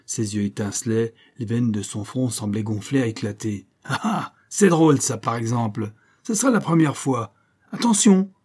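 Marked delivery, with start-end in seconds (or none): 3.8-4.3 wild laugh. Acted. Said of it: "un éclat de rire sauvage". 4.5-8.3 loud and high, almost a shout; enraged threat. Acted. Keely warning the agents before charging, enraged shout.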